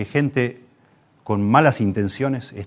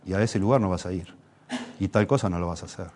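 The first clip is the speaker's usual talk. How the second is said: calm firm parent; 3 semitones lower, 6 dB quieter than usual. Retold or imitated.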